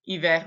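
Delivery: hiver with its French R pronounced; final R sounded. Shown as a demonstration. Teacher giving the exception, hiver with R sounded. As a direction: end hiver on an audible R. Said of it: "we say that R".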